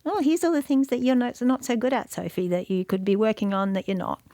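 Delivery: nagging inner voice. Retold or imitated. Describing her self-doubt, mock nagging inner voice. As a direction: voice the little critic on your shoulder. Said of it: "that voice that comes up at some point to go".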